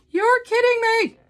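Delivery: high, loud squeal of disbelief; excited disbelief. Retold or imitated. Retelling her thrilled reaction to finding it, excited disbelief.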